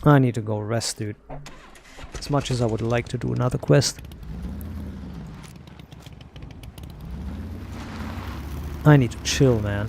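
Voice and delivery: winded, tired breathing. Real, not acted. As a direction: talk while catching breath. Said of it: "I'm so fucking winded".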